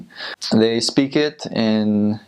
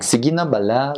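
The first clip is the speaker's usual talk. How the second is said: Sige na bala with the Bacolod lilt, pitched up; 4 semitones higher than usual. Shown as a demonstration. Demonstrating the emphasized Bacolod tone, lilting Bacolod accent. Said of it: "emphasize that tone a lot in Bacolod".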